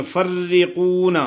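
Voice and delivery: فرقون with a light, doubled ر, slowly; thin doubled ra. Shown as a demonstration. Teacher models یفرقون with a thin, doubled ر. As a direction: stress the shadda on ر in فرقون, kept thin. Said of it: "را کو باریک پڑھیں گے".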